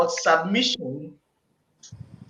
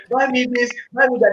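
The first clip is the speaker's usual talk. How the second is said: demanding request; 6 semitones higher, 3 dB louder than usual. Retold or imitated. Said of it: "a woman is saying".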